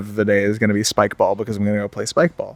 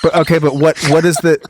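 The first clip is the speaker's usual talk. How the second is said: mock angry clerk; 3 semitones higher than usual. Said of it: "you seem very angry".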